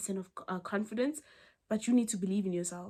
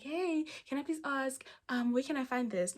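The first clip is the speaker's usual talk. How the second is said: confident asking demo; 4 semitones higher than usual. Shown as a demonstration. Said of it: "you get to a supermarket".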